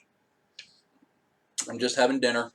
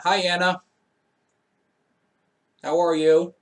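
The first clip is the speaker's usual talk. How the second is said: excited greeting; 7 semitones higher, 7 dB louder than usual. Real, not acted. Greeting streamer's young daughter.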